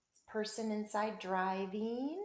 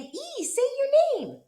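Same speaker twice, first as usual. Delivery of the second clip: high, slow voice for the letter A; letter A talking; 8 dB louder, slower than usual. Acted. Teacher voicing the letter A telling E to say its name, high and slow. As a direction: give the letter A a squeaky little voice. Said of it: "this A is saying".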